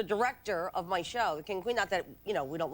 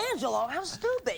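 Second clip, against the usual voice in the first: higher-pitched retold scolding; exasperated; 4 semitones higher than usual. Girlfriend retelling her scolding of Angelo, exasperated.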